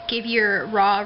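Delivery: ordinary talk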